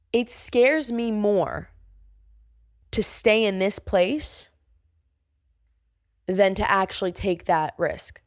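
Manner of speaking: slow, deliberate inner vow; slow, sincere resolve. Retold or imitated. Watching everyone at the party, slow sincere vow. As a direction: say it slowly, as a promise to yourself. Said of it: "and I said".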